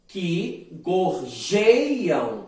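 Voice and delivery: very slow, spaced poetic syllables; slow scansion. Shown as a demonstration. Teacher scanning the second verse for the class, slowly. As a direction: beat out "Onde canta" syllable by syllable. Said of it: "Percebam só a divisão poética".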